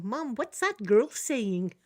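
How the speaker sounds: lightly imitated wee girl, drawn out slow; a hint of a puzzled child asking her mum. Wee girl asking her mum about a strange word, lightly imitated child. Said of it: "I hear a wee girl going".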